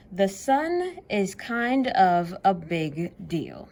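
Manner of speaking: storybook reading voice; reading to children. Acted. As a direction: read the book to kids with energy. Reading the book aloud.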